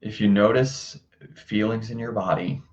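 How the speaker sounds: calm, measured meditation guidance with long pauses; guided meditation. Acted. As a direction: gently guide listeners to their breath, unhurried. Leads a breathing meditation.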